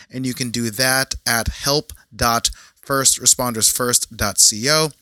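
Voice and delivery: measured, evenly paced host read; podcast intro read. Acted. Host welcomes listeners and previews two guests, podcast intro read.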